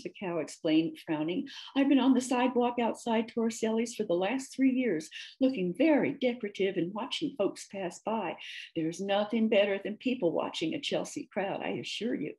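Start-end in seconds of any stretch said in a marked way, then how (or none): 1.8-12.3 chatty, mildly affronted tale-telling; a hint of a talkative character voice; lightly voiced storybook cow. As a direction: tell your odd story with lilting emphasis. Cow tells her story.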